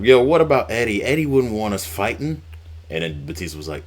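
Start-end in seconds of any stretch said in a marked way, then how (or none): 0.0-2.4 a bit higher and louder, lightly voiced; a hint of begging Rey; mild pleading Rey imitation. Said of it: "Rey was like".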